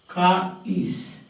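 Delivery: "Car is" joined by a sounded R; linking R. Shown as a demonstration. Teacher showing R before a vowel word, linking R. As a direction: link "Car" to "is" with an R. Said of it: "You will pronounce it".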